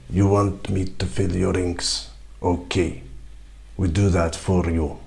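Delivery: a slick attendant upselling the ink refill; starship attendant. Acted. Starship attendant quoting a customer a steep price, low and smooth. Starship crew filling the inks.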